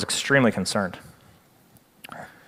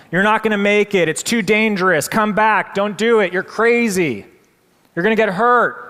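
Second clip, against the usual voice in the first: high, loud pleading shouts; crowd screaming; 7 semitones higher, 3 dB louder than usual. Retold or imitated. Crowd yelling at the climbing frogs, loud and high. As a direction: yell at the frogs to come back. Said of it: "screaming at all five frogs".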